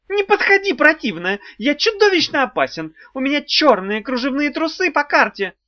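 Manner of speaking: high, loud panicky squeak; squeaking in fright. A narrator's reading. Imp squeals threats at the approaching witch in panic. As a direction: squeal empty threats in terror. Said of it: "пискнул Тухламон".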